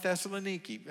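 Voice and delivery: Thessaloniki said thess-uh-luh-NEE-kee; alternative pronunciation. Shown as a demonstration. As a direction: say Thessaloniki with a long "ee". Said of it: "if you wanna call it".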